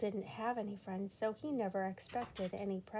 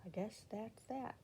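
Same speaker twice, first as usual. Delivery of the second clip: softer resigned line; quiet resignation; a little quietly; 8 dB quieter than usual. Acted. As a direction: let it go quietly, wistful. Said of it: "a little quietly".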